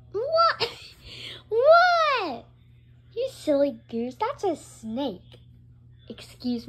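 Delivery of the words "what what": loud startled question. Acted. Reacting to being called.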